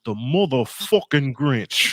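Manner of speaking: put-on Italian accent. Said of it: "here's my best with the Italian accent".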